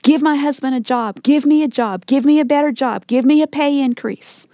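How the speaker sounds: mock insistent list of demands; demanding. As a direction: press each request on God, mildly insistent. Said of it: "And we become demanding".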